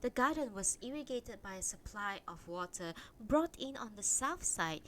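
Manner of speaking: measured read-aloud storytelling; story narration. A narrator's reading. Reading a translated Japanese novel to stream viewers, story narration. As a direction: read the novel out clearly, phrase by phrase. Reads chapter four aloud.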